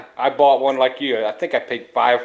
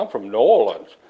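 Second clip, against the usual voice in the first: lightly imitated New Orleans accent that sounds like Boston; a touch of Boston in a New Orleans local's voice; Bostonian accent. New Orleans local answering a mistaken listener, light Bostonian accent. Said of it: "it's a very Bostonian accent".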